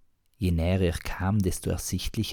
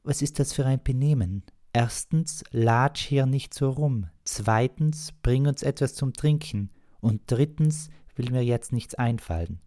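higher, scolding woman; 7 semitones higher than usual. Acted. Margret scolding the young innkeeper, high and admonishing. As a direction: tell him off in a high voice, item by item. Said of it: "ermahnte die Frau".

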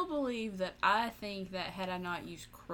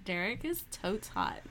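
man doing a woman's voice; 3 semitones higher, 4 dB louder, slower than usual. Acted. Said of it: "your girl voice there".

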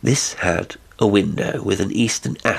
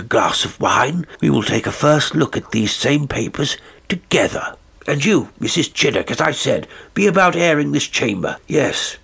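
higher, firm gentleman's voice, curt at the end; polite to the guest, impatient with the servant; masterful squire; 3 semitones higher than usual. Acted. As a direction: Sir Richard brushing off Mrs Chiddock's protests. Sir Richard hosts, dismisses housekeeper.

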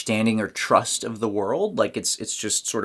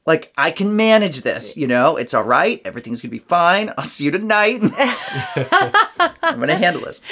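reassuring adult voice; 4 semitones higher than usual. Retold or imitated. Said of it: "It's like".

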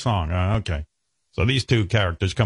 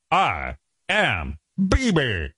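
slow announcer catchphrase; 4 semitones higher, much slower than usual. Retold or imitated. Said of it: "That was his whole thing".

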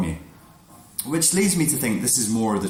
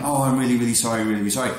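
mock sudden apology; 3 semitones higher, 3 dB louder, much faster than usual. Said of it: "flips again".

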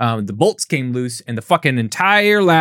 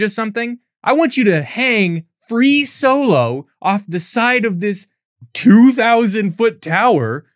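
mock evil friend; 4 semitones higher than usual. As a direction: goad her like a manipulative friend. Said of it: "This friend is evil".

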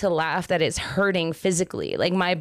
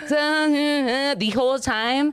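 laughing; 6 semitones higher, much slower than usual. Real, not acted. Laughs through the line.

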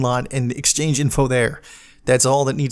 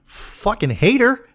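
slow, much higher, drawn-out sneer; mock hateful whine; 9 semitones higher, slower than usual. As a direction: stretch it out in a high mocking voice. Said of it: "I was like".

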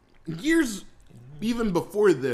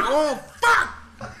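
dismayed; 7 semitones higher than usual. Retold or imitated. Child's dismay at father's order.

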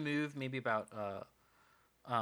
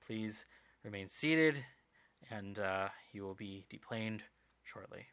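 low, subdued intercom voice; weary pilot announcement; 3 semitones lower than usual. Acted. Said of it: "over the intercom you hear a very big sigh".

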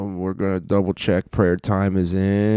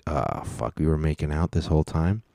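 deflated, under-the-breath mock regret; mock dismay; 2 semitones lower, 7 dB quieter than usual. Streamer voices a duped contestant's realization, mildly dismayed. Voicing a dismayed man's reaction.

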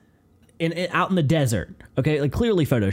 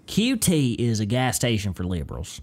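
put-on country Southern voice; Southern accent; 2 semitones lower than usual. Host on boiled peanuts, put-on Southern accent. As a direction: lean into a Southern good old boy. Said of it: "start leaning into the Southern accent".

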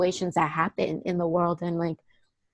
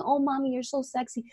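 mock sleazy catcall; 6 semitones higher, 7 dB quieter than usual. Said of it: "he had been telling me".

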